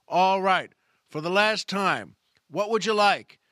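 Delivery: mock-stern last warning from a waitress; stern angry waitress. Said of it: "now there's no smile on her face".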